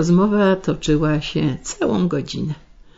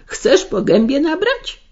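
sharp raised scold; yelling at son; 9 semitones higher than usual. A narrator's reading. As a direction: bark the boy's name, raised. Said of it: "wrzasnęła matka".

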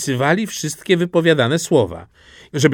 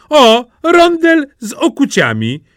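high, loud, delighted announcement; proud showing-off; 13 semitones higher, 6 dB louder than usual. A narrator's reading. Simple Jack shows his old clog as pan, proud showing-off. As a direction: present it like a treasure.

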